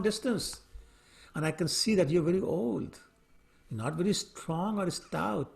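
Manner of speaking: a king's hammed-up sarcastic sympathy; mock concern. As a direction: pretend to pity the old servant. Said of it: "he got really sarcastic".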